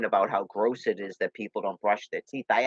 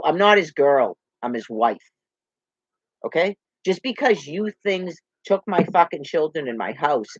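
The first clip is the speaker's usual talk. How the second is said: angry retort; 3 semitones higher than usual. Real, not acted. Confronting someone who called her girl.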